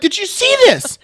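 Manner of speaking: loud, high, incredulous complaint to Katie; outraged question. Retold or imitated. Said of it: "I'm like".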